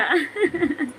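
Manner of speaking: quick amused high laugh; short laugh. Real, not acted. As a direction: let a laugh slip out. Laughs at teacher comment. (हल्की सी हंसी)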